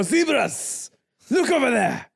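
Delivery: put-on light French-accented call. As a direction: point and shout in a hammy French accent. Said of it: "I don't know why I have a French accent".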